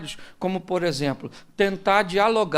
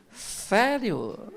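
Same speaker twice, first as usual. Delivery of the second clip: sarcastic; slower than usual. Retold or imitated. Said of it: "Não seja irônico".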